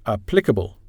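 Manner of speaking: Applicable, with PLIC stressed; stress on second syllable. Shown as a demonstration. Teacher showing learners word stress, Applicable stressed on the second syllable. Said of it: "has the stress on the second syllable".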